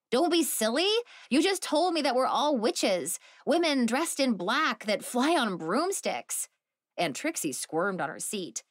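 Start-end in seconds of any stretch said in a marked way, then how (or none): 0.1-6.5 higher, louder, incredulous echo; indignant protest. Acted. Phoebe protesting to her aunts on FaceTime, higher and indignant. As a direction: throw the words back at her.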